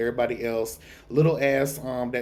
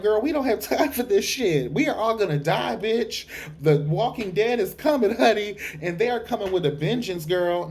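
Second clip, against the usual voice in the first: urgent Jon; 7 semitones higher than usual. Retold or imitated. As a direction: warn them the dead are coming, a touch hammed-up. Jon voiced, panicking about the dead.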